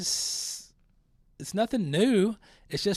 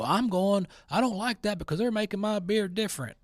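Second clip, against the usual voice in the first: higher, whiny complaining voice; mocking angry drinker; 4 semitones higher, 3 dB louder than usual. Mocking boycotters with a higher whiny complaint. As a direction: whine like an offended beer drinker. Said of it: "Then you get mad and go".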